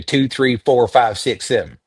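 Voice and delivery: Southern US, through the nose; nasal Southern accent. Shown as a demonstration. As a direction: count in a nasal Southern drawl. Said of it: "Southern accents traditionally are very nasal".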